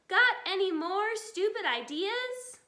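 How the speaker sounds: loud scornful shout; shouted back. A narrator's reading. Bunce shouting back at Bean. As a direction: yell it back with contempt. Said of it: "Bunce shouted back".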